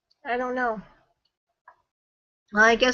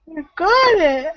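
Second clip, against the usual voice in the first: yawning; 2 semitones higher than usual. Real, not acted. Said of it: "I'm yawning".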